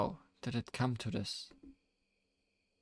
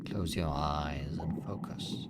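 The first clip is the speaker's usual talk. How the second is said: slow, low reassuring guide; calm guiding; 4 semitones lower than usual. Acted. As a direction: gently ask them to focus. Guiding listener to listen.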